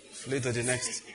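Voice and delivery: soft, understated scripture punchline. Retold or imitated. Preacher advising persecuted suitors with scripture, understated punchline. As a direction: slip the verse in quietly.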